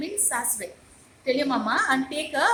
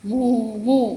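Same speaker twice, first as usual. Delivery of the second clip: lightly imitated cow mooing; gentle mock moo for the class; 2 semitones lower, 9 dB louder than usual. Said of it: "Meera hears the sound".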